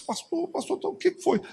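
high, soft, urgent call; lightly voiced anxious mother; a hint of an anxious mother; calling the pastor.

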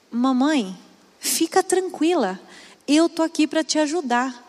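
a lightly voiced child promising to help; little boy voice. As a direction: play the small son comforting mom. Son reassures mother in car.

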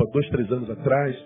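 normal talking voice

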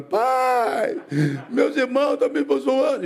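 imitating a tearful little boy tattling, high-pitched; high mock wail to dad; whiny crying child. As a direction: play a kid crying out for his father. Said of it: "E eu chorava".

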